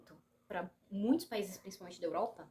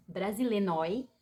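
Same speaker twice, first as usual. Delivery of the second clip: apelido divertido; 6 dB louder than usual. Acted. Lê apelido dado aos brasileiros.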